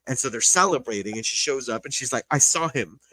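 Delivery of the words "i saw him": mild mock fury, slightly raised; retold anger. Retelling the dinner scene where she shows up, mildly mad. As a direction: act out her anger, voice lifted. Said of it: "she just looks so mad".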